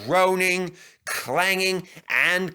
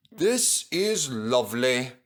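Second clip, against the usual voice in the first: contented. Acted. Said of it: "he thought".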